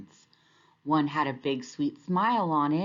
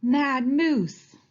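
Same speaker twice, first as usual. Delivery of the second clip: high, loud panicked cry; storybook alligator squawking in alarm; 9 semitones higher, 5 dB louder than usual. A narrator's reading. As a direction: flee squawking the name. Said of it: "squawked Alligator".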